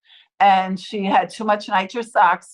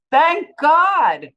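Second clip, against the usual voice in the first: mild mock scream; 6 semitones higher, 3 dB louder than usual. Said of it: "the dentist screamed".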